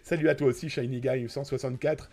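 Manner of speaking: hoarse sick voice from a cold and fever; croaky, ill voice with sore throat; voice from beyond the grave. Real, not acted. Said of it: "cette voix d'outre-tombe, vous m'en excuserez, je suis malade".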